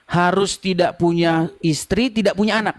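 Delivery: slow, spelled-out recap; slow and deliberate. Real, not acted. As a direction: lay it out slowly, point by point. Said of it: "Sebentar, sebentar". (pelan dan tegas)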